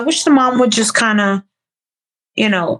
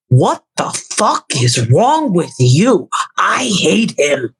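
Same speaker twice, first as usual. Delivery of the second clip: slow, lower mocking impression of a woman; imitating Laura; 4 semitones lower, slower than usual. Retelling Laura's angry reaction to his guest, slow mock impression. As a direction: drag the words out like a scornful Laura. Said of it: "That shit sounded just like her just now".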